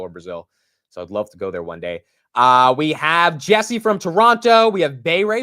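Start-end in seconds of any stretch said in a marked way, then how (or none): 2.3-5.4 loud, raised roll-call voice; calling out viewers. Real, not acted. Host shouts out viewers and their cities, calling out. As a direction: announce each name to the audience.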